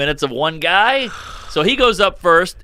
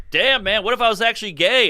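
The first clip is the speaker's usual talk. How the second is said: mock incredulous; 7 semitones higher than usual. Acts his reply to heckler.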